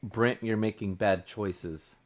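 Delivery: soft, slow disappointed rebuke; quietly. Pretend. Players expect the coach to quietly scold him, soft and slow. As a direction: say it gently and slowly, like a letdown. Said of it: "quietly say".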